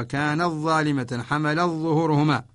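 usual speaking voice

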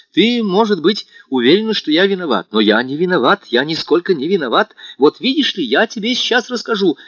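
put-on lost young man pleading with Natasha; utterly flustered. A narrator's reading. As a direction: babble your innocence in a panic. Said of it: "совершенно потерявшись".

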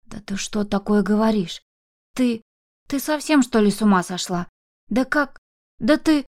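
the grandmother horrified by what she hears. Acted. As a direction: gasp it out in horror. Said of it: "вдруг в ужасе зажала рот ладонью".

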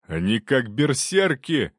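slow, urgent shout mid-fight. Acted. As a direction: yell it out while fighting two. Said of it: "крикнул Бровин".

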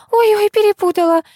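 high-pitched loud cry; shout. A narrator's reading. Daughter-in-law shouting an excuse up to the old woman, loud and high. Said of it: "закричала невестка".

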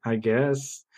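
slow, stretched-out feigned interest, dropping off; dubious politeness. Acted. Interviewer lost by the candy riddle, slow doubtful politeness. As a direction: drag out the praise, then sink into doubt.

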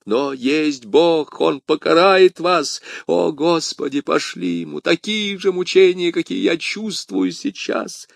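anguished curse. Acted. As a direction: call down punishment in agony. Dying man curses his poisoner.

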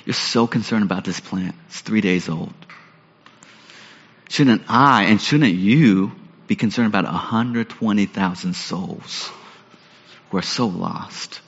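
soft and low, fading almost to a hush, slowing at the end; quiet, tender appeal from God to Jonah; tender pleading God. Retold or imitated. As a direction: plead gently, letting the voice drop away. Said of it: "God says".

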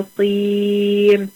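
بصير drawn out slowly after سميع with nasal iqlab; teacher modeling tanween before ب; slow tajweed example. Shown as a demonstration. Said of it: "التنوين المضموم".

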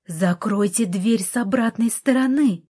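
loud, high yell to get out; yelling at the intruder at the door; shout. Acted. Heroine shouting at Artur to get out, loud yell. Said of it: "закричала я".

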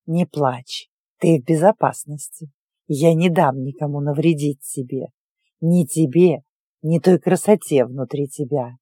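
low, gentle comforting voice; calm her, low and steady; soothing a child. Acted. Witch comforts sobbing girl.

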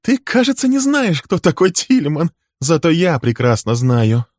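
very high, loud, spiteful gloating; mock him with menace; shrill threatening sneer; malicious taunt. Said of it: "Она зло рассмеялась".

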